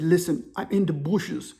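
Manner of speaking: put-on slow African-accented confession; hushed African accent, words spaced out; imitated African caller. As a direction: play an African man hiding. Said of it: "The African dude's whispering".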